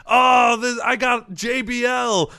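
excited shout. Retold or imitated. Cheering at drawn wrestler.

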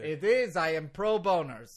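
put-on forceful, heavily Russian-accented insistence. Lawyer contradicts host, very Russian accent. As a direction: insist proudly in thick Russian English. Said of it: "You are so Russian right now".

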